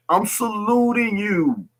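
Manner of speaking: slow, high whispered salute. Real, not acted. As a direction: whisper the salute slowly to the brothers. Repeats salute, second time whispered.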